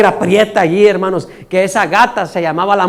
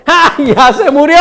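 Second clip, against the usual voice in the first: hammed-up crocodile-tears lament; fake mourning wail; 4 semitones higher, 4 dB louder than usual. Showy mourner cries at a funeral without feeling it, mock wailing. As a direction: raise the pitch and drag out a phony wail. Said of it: "le gusta actuar".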